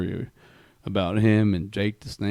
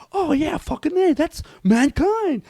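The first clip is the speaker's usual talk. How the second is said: very high-pitched, louder fanboy cheer; mock fan shout, last word drawn out; excited fan yell; 5 dB louder, slower than usual. Dude across the theater spots Mankind, excited fan yell.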